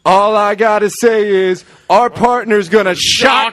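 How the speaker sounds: shouted promo, building to a high yell; hammed-up hype announcement; mock wrestler promo; imitating Sting. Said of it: "And Sting just goes".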